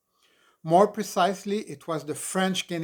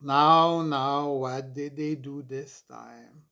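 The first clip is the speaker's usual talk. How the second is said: gently soothing mother; slower than usual. Acted. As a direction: soothe a hurt child slowly. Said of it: "said gently".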